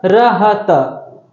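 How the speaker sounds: very slow, each letter apart: र, ह, त; letters spelled out slowly. Shown as a demonstration. Teacher to shorthand class, spelling each letter slowly. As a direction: spell out र ह त one by one for students. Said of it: "हमने क्या लिख जोड़ा?".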